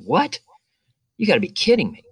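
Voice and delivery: high-pitched mock disbelief; retold freak-out. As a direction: squeak out the shock, imitating your panicked self. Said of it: "turning white and freaking out".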